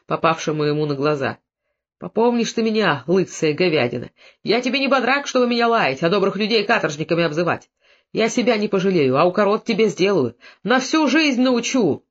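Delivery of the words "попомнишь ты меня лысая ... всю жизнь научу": ordinary delivery, nothing marked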